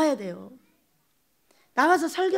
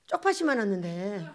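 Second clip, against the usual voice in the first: ordinary talk, nothing marked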